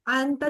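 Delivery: अंता with a hidden nasal n, as in पंखा; ikhfa on अंता. Shown as a demonstration. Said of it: "जैसे पंखा बोलते हैं".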